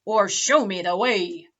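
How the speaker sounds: loud pirate threats; bully her like a pirate captain; angry pirate. Acted. Big Pete threatens Library Lou loudly.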